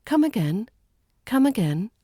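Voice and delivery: "Come again" with a clean, short "come"; short clean vowel. Shown as a demonstration. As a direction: keep the vowel in "come" short, no heavy stress. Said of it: "So keep the vowel in come".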